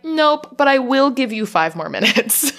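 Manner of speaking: lightly sassy, high-pitched refusal. Acted. Ship computer refusing Ripley's undo, with mild sass. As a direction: give it a touch of playful sass. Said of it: "where Mother's sass comes in".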